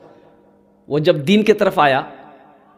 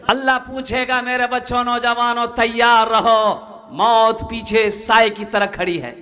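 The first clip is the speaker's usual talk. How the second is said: sustained, raised chant-like preaching; preaching exhortation; 3 semitones higher than usual. Real, not acted. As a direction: draw out each phrase like a solemn warning.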